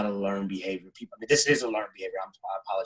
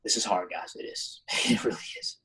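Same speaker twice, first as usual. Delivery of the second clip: softer, voice catching with real emotion; fighting back tears at the end of his words; holding back tears; 5 dB quieter than usual. Real, not acted. Thanking the panel, close to tears and softer. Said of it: "I'm sorry for getting a little bit emotional".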